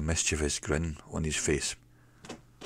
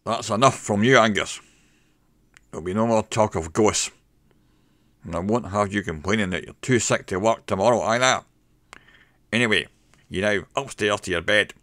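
firm, louder scolding voice; stern boss; 4 semitones higher, 5 dB louder than usual. Acted. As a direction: lay down the law to him. Boss scolds drunk barman.

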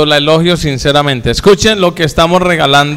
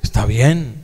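softer, lower, gently reassuring; tender reassurance; 5 semitones lower, 6 dB quieter than usual. Retold or imitated. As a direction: soothe a wife who feels fat. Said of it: "Cómo le digo yo".

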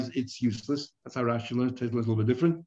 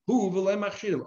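Who pitched up at the start; stress on Who; 5 semitones higher than usual. Shown as a demonstration. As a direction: hit Who as the limiting word. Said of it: "they emphasize the word who".

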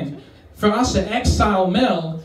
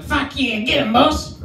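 eager sidekick; 7 semitones higher than usual. Acted. Sidekick cheering the boss.

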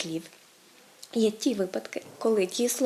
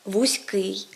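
вузький with the stress landing on -ий, drawn out; stress on last syllable. Shown as a demonstration. Teacher models the correct adjective stress, вузький stressed on the ending. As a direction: stretch the final syllable of вузький. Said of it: "вони мають закінчення наголошене".

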